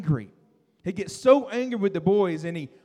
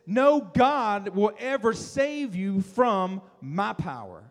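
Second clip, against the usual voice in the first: boastful king; much slower than usual. Acted.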